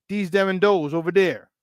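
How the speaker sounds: dese dem dose Chicago accent. Shown as a demonstration. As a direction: say them as tem and those as dose, Chicago style. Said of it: "my Chicago accent".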